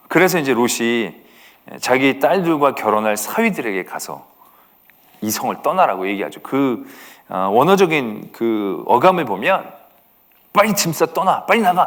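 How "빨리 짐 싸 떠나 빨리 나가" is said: acted forceful, urgent commanding voice, pitched up. Retelling a man urging his sons-in-law to leave the city, acting out a forceful order. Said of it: "막 이런 식으로 아주 강력하고 명령적으로".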